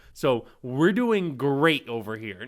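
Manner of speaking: ironic, sarcastic delivery. Going over this month's revenue figures: sarcastic. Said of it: "I'm sarcastically saying that".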